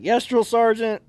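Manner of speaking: high, slow, loud acknowledgement; sheepish recruit's response, drawn out; dutiful trainee reply. Retold or imitated. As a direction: answer a sergeant obediently, acted out. Trainee answers the sergeant.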